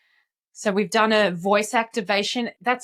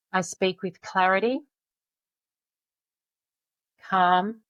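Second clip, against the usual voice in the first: slow calm affirmation. Shown as a demonstration. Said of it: "we do that again".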